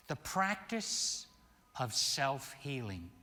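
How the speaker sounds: "Practice" lifted and stretched; announcing the title. Shown as a demonstration. Minister announcing his talk's title. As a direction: lift "Practice" like a title card. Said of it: "I want to title this talk".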